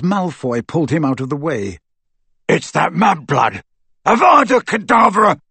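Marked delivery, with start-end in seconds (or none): 2.5-5.4 outburst building to a high, loud spell; shouted curse. A narrator's reading. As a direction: hurl the curse at an enemy. Crabbe hurls killing curse in combat.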